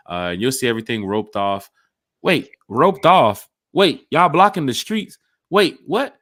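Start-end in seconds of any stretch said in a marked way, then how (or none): 2.2-6.2 louder, higher, slow disbelief; hammed-up shock; mock surprise. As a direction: play it like you can't believe the streets are blocked. Mock surprise at road closure.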